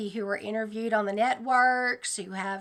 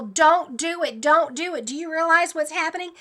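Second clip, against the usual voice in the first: pleading yell; 4 semitones higher than usual. Retold or imitated. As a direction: yell at the crowd to stop. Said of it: "I'm screaming at these people".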